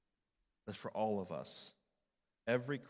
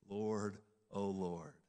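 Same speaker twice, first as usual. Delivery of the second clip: hushed prayer; 3 semitones lower than usual. Real, not acted. Prayerful psalm fading out.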